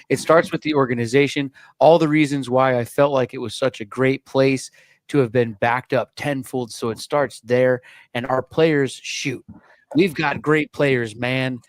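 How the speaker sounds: a hint of football-coach delivery, punchy; generic football guy. Host reads the new coach's quote to his co-hosts, generic football guy. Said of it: "I don't know what he sounds like yet".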